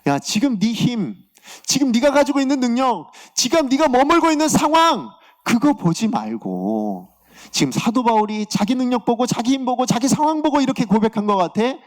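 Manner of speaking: high, insistent exhortation as God; preacher's urgent reenactment of God speaking; God's rebuke. Retold or imitated. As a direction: voice God challenging a complaining believer. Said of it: "하나님께서 하셨던 말씀은".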